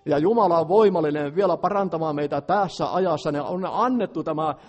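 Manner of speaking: loud, rising sermon voice, pushing each line out; fervent preaching. Acted. Preacher urging the congregation to be free, loud fervent preaching. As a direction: preach at full force, urging freedom.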